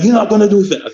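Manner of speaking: mock yell, pitched well up; retold coach's yelling. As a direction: imitate the coach scolding in a high voice. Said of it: "yelling at me".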